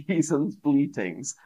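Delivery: reading through real laughter; laughing. Real, not acted. Teacher reading a sheep pun from a learner's card, laughing. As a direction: giggle as you read out the pun. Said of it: "That made me laugh".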